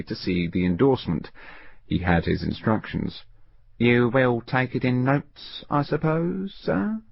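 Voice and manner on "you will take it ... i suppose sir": slow, detached question rising to the end; cool. Acted. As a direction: ask as if it were nothing. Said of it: "he asked coolly".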